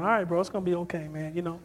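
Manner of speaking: quick, casual reassurance; retold calming. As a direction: talk an upset friend down. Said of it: "I'm just calming him down".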